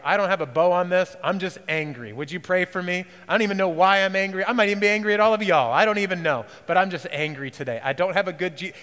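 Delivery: exasperated confession of anger; venting frustration. Retold or imitated. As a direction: blurt out the anger to the group. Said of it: "and you're like".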